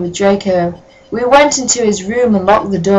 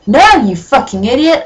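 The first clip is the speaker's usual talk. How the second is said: mock shout; 5 semitones higher than usual. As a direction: yell it with overacted rage. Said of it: "I shouted".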